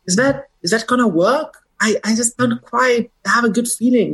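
high, hammed-up voice of a working-class Jersey guy; Jersey comedian's guy. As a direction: pitch it way up as the comedian's everyman. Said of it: "He says".

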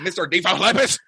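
put-on high, slow Southern accent; Southern drawl. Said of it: "I gotta shake my head when I say".

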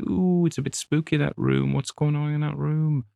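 high, mock-spooked girl's voice; a put-on nervous whisper-free spooky tone. Mock spooky reaction of character.

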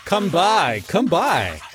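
high repeated hawker's call; shrill goblin cry. Acted. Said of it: "with their shrill repeated cry".

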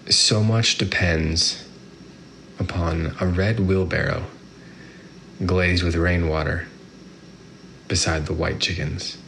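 slow, measured poetry reading; poem reading. Acted. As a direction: savor each line with long pauses. Reads the poem aloud.

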